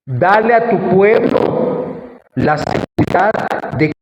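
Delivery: fervent spoken prayer to God; earnest prayer. Real, not acted. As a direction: plead with the Lord on the people's behalf. Leads the congregation in prayer.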